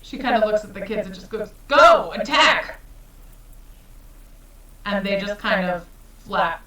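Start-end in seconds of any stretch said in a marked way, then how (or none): 1.7-2.8 high, loud, drawn-out battle cry; bellowed command to attack; shouted attack order. Acted. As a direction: send them charging with a shout. Character orders kids to attack.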